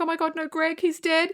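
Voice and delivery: high-pitched, lightly acted dismay; mock distress. Buffy protesting that Greg is dead, mock distressed. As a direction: imitate an upset pageant girl. Acts Buffy upset over Greg's death.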